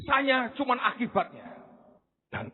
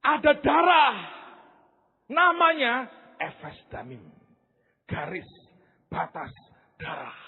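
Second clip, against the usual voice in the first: excited discovery; 5 semitones higher, 3 dB louder than usual. Retold or imitated. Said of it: "saya berkata".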